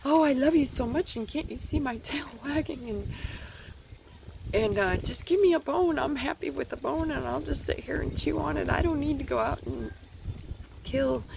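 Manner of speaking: high, gushing happy dog voice; giddy dog voice gushing at its owner coming home; excited dog. Retold or imitated. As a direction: play an overjoyed puppy greeting its owner. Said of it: "the dog's like".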